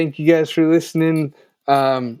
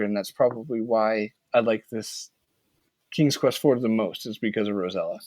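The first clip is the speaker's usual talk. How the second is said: winded, talking on little air; running out of breath at the end; 3 semitones lower, 5 dB quieter than usual. Real, not acted. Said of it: "Sweet, I'm out of breath".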